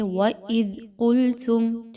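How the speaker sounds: slow demo of قُلْتُمْ; teacher models the heavy ق in قُلْتُمْ; heavy qaf. Shown as a demonstration. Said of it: "اس کو موٹا کر کے پڑھیے".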